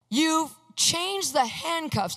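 slow, high-pitched mock accusation; drawn-out imitated indignation; mad mother. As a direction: accuse word by word, imitating her upset. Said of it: "she's actually mad".

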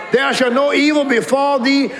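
scripture shouted in a fighting voice. Shown as a demonstration. Preacher shows the church how to fight, fighting voice. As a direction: declare it like a battle cry. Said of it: "That's a fighting voice".

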